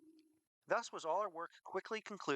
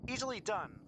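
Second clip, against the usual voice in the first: higher, called-across voice; calling out; 10 semitones higher than usual. A narrator's reading. Trader agreeing to a swap across the hill, calling out high. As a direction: call it lightly across a distance.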